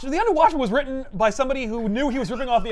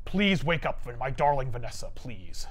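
pleading Kingpin; 7 semitones lower, 5 dB quieter than usual. Pretend. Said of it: "Could you do this in the Kingpin voice?".

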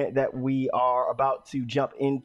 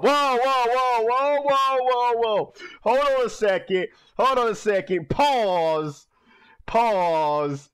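startled shouting; 7 semitones higher, slower than usual. Real, not acted. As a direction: freak out and stop the scene. Startled reaction to game scene.

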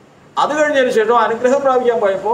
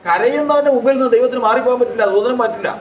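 emphatic repeat; 4 semitones higher than usual. Acted. Preacher pressing the same truth on the congregation, emphatic. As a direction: drive the point home to the hall. Sermon point repeated with force.

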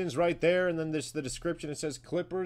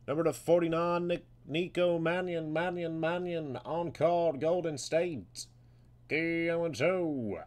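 playful arena-style player introduction; drawn-out, echoing hype call; announcer; 2 semitones higher, slower than usual. Acted. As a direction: call the card out, stretching the key words. Card breaker announces the pull.

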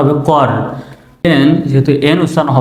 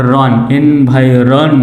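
slow blending; slower than usual. Shown as a demonstration. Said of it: "আর ও এন".

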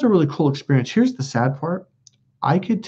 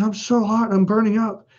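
higher-pitched imitation of an overheated girlfriend; distressed girlfriend; 8 semitones higher than usual. Girlfriend burning up as the monk works, imitated high-pitched distress. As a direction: mimic her complaint in a higher voice. Woman overheating during exorcism.

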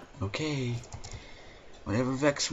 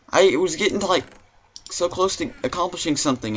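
upset ranting; 8 semitones higher, 6 dB louder, faster than usual. Real, not acted. Upset after dying.

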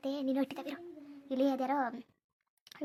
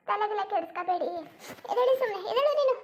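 urgent scolding; 4 semitones higher, 4 dB louder than usual. Acted. Urging mourners to get up.

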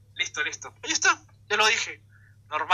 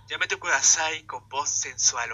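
mock sensual voice; 2 semitones lower, slower than usual. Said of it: "de manera sensual".

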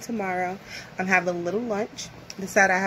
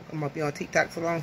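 rushed talking; 3 semitones lower, 5 dB quieter, faster than usual. Real, not acted. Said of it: "I'm so used to talking fast".

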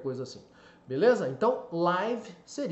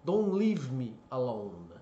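"Don't leave me alone" slow, long ee in "leave"; slow model sentence; 4 semitones lower, slower than usual. Shown as a demonstration. Teacher giving the song-like example slowly. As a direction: say each word slowly and clearly. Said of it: "não me deixe só".

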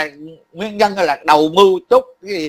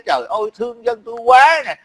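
imitating someone's lament, slightly raised pitch; put-on hand-wringing complaint; mock lament; 4 semitones higher than usual. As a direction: wail it mockingly, but only mildly. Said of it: "nó than vãn này kia".

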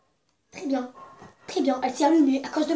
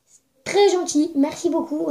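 sarcastic; 3 semitones higher, 6 dB louder, slower than usual. Acted. Remerciement exagéré.

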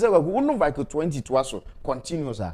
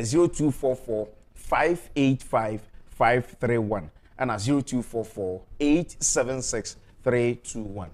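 slow number dictation; 5 semitones lower, slower than usual. Acted. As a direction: spell out each digit slowly and clearly. Dictating phone numbers on air.

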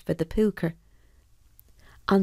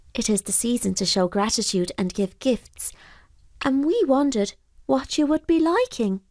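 put-on polite boy; 6 semitones higher than usual. Boy thanks pooka.

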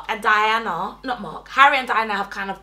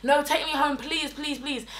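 higher, fading run of pleases; beg, letting the repeated word grow softer; pleading; 4 semitones higher, 4 dB quieter than usual. Retold or imitated. Drunk girl begging her manager in a cab, pleading.

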